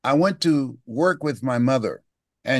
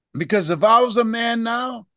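put-on much higher, urgent child's plea; boy pleading; 9 semitones higher than usual. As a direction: beg like a ten-year-old.

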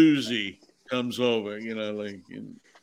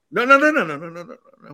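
shouting no; 6 semitones higher, 6 dB louder, much faster than usual. Acted. Director stopping a bad take.

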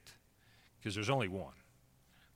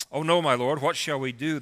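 louder, higher cry of a frightened servant; mildly acted fear; 4 semitones higher, 8 dB louder than usual. A narrator's reading. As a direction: read it with a touch of alarm, pitched up. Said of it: "So the servant is afraid".

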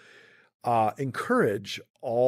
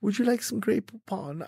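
mock ad line; 10 semitones higher than usual. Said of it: "wanting to say that".

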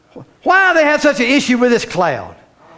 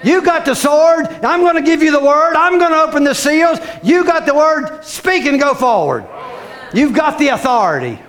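voice of God; 3 semitones higher than usual. Retold or imitated. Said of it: "God is saying".

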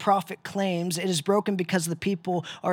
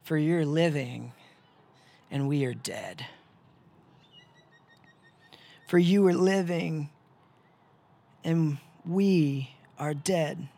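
bitter retort; 3 semitones lower than usual. Acted. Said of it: "And you want to say".

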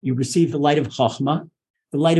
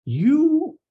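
lifted, higher prayerful address; prayer to Hashem; 10 semitones higher than usual. Shown as a demonstration. Teacher chanting the prayer's opening to Hashem, lifted and prayerful. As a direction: sing it up to God like a prayer. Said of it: "We say to Hashem".

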